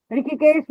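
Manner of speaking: ঋষিকেশ said as "rikhikesh". Shown as a demonstration. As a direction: put a kh in place of sh in ঋষিকেশ. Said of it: "মূর্ধন্য স কে খ পড়ে".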